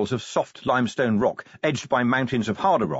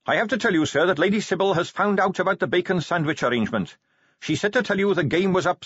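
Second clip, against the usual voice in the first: higher-pitched, dutiful captain; earnest subordinate officer; 8 semitones higher than usual. Acted. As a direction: report earnestly to your commander in a raised pitch. Narrator voices Carrot's report.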